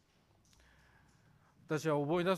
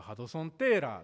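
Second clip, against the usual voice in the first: Nagoya dialect; 6 dB louder than usual. Shown as a demonstration. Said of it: "名古屋弁だと".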